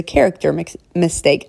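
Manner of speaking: false start "mix-" before a corrected "mistake"; tongue slip. Real, not acted. Podcaster retrying a fumbled phrase trips on "mix-" before "mistake", tongue slip. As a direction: stumble over "mistake" as "mix-", then fix it. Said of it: "I mumbled again".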